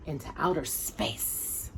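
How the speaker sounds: slow, soft and ominous; hushed. A narrator's reading. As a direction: let it drift off into space. Ominous narration.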